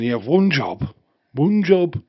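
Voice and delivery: loud, rising exasperated yell; exasperated shout. Real, not acted. Fan yelling at Scotland for failing, exasperated shout. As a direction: rant at the team.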